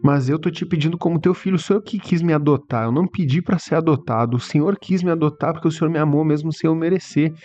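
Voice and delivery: pleading prayer. Retold or imitated. Father pleading for sick baby. (oração suplicante, voz mais aguda e urgente)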